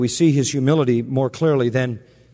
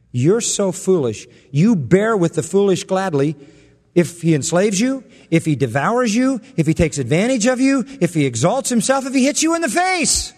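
sarcastic; 4 semitones higher than usual. Pretend. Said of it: "that kind of sarcasm here".

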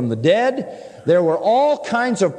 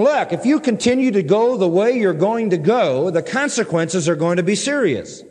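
raised, urgent warning; serious admonishing tone; 4 semitones higher than usual. Acted. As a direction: caution them firmly about what follows. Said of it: "It's warning. It's saying".

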